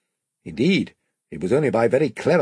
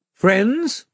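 higher, louder king voice; commanding young king; 10 semitones higher, 4 dB louder than usual. A narrator's reading. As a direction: address the assembled crew as their king. King addressing the crew.

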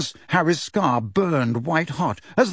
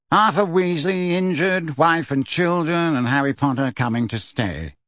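bored voice; 2 semitones higher than usual. Acted. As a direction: drone it back, uninterested. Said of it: "repeated Phineas in a bored voice".

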